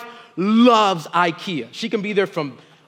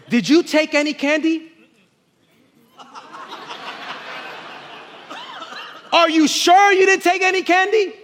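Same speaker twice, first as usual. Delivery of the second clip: stern questioning; 8 semitones higher than usual. Retold or imitated. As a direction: press him like a suspicious dad. Father questions son about candy.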